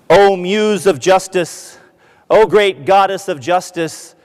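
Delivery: a hint of a pompous orator; lightly grandiose plea. The lawyer pleading to the goddess of justice, slow mock-grand oration.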